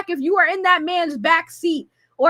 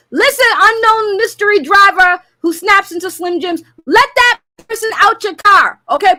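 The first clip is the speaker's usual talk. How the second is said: mock-stern demand; 5 dB louder than usual. Orders driver to free victim.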